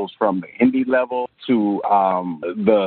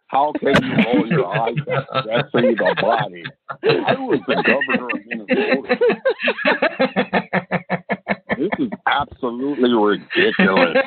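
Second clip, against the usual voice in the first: put-on blustering commentator voice, breaking into laughs; mock outrage as a famous wrestler-commentator; Jesse the Body; 6 semitones higher than usual. Guest as offended ex-governor scolding the host, mock indignant. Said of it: "That's my best Jesse impression".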